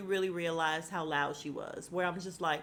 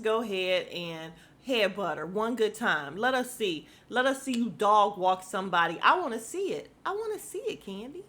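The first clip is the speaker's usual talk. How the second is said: louder, rising hype, urging a fight; egging on; 4 dB louder than usual. Real, not acted. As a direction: build it up like a fan at a brawl.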